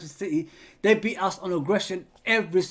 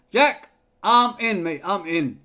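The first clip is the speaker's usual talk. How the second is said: excited laugh; 7 dB louder, slower than usual. Real, not acted. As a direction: jump in delighted. Laughing, excited reply to viewer.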